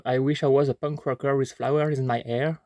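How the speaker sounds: English song title read in a strong French accent. Real, not acted. French vlogger reads an English song title in his French accent. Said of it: "Vous excuserez mon accent de merde".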